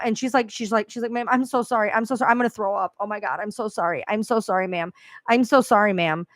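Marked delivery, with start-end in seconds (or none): 1.1-6.3 a mild imitation of a panicked, tearful apology; retold crying plea. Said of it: "And she's crying".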